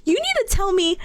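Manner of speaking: mock demanding yell at an advisor, NOW barked loud. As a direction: play-act shouting a demand. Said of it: "I'm yelling".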